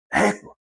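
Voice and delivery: ÉGUA as a short exclamation; short, quick ÉGUA; intonation demo. Shown as a demonstration. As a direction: say ÉGUA briefly, without stretching it. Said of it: "O tom".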